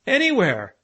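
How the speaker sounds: high, loud excited cry; excited shout. A narrator's reading. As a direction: call it out in a flap. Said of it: "shouted the excited professor".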